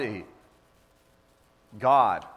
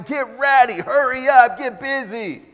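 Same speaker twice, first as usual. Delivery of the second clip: louder, higher, hurried mock yell at the kids; mock yelling parent; 6 semitones higher, 5 dB louder than usual. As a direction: imitate a stressed parent barking at the kids.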